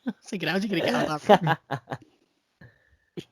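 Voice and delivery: slow, high robotic cyborg voice. Pretend. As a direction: talk like a half-machine cyborg, slowly. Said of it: "you sounded like a cyborg".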